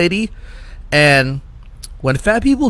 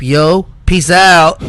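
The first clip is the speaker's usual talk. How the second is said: mock gangsta talk; 2 semitones higher, 4 dB louder, much slower than usual. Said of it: "she was all straight up".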